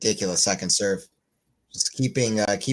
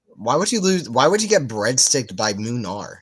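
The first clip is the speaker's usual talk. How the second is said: exasperated outburst; 2 semitones higher, 4 dB louder than usual. Real, not acted. Frustrated at player's loss.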